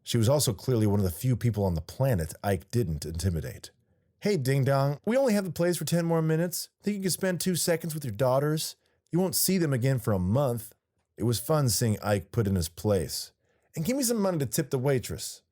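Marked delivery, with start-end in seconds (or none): 4.2-15.4 high, lightly voiced scolding woman; bossy ex-wife putting him in place.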